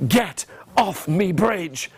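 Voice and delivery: slow, spaced troll order; troll command. Shown as a demonstration. Leading children in the troll's order, slow command. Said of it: "Can you do that with your hands?".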